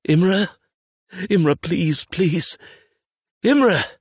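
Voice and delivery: high, pleading shouts; panicked cries rising to a scream; desperate calling. A narrator's reading. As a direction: beg and shout for them to answer. Desperate calls for lost companion.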